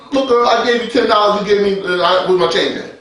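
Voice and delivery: casual street-style complaint; talking real. Shown as a demonstration. Customer at Walmart asking a cashier, talking real. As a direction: ask it plainly, like everyday talk. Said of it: "Talk real".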